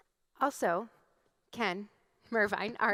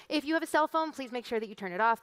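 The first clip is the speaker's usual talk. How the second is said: flight attendant; 4 semitones higher, 4 dB louder, faster than usual. Pretend. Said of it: "That's also part of the flight attendant announcement".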